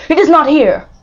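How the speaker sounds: high, loud frantic shout; frantic cry. A narrator's reading. Madman digging for his son, crying out. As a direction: cry out madly while digging. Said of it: "he cried".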